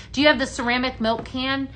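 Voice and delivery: usual speaking voice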